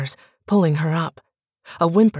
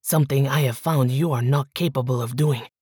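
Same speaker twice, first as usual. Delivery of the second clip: a touch lower, cold and measured threat; lightly voiced menacing husband; 4 semitones lower than usual. Miguel threatens Bianca.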